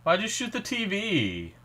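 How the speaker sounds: surprised. Real, not acted. Reacting to a shocking scene.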